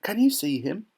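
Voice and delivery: put-on thrilled little-boy voice; excited boy's cry. A narrator's reading. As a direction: pipe up eagerly as a young boy. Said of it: "cried Charlie".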